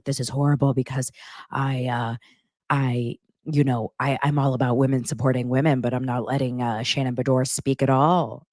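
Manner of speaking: a light raspy smoker impression, not pushed far; imitating Beverly's smoker's voice. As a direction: slip into Beverly's raspy smoker's voice, half-joking. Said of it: "She has such a smoker's voice".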